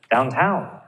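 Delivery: "downtown" with the weight on TOWN; stress on second syllable. Shown as a demonstration. Teacher giving compound adverb examples, stress on TOWN in "downtown". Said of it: "You're gonna stress the second syllable".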